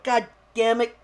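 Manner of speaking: mock yell at a drunk buddy; exasperated scolding. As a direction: punch the name in retold exasperation. Scolding his drunk commentary partner.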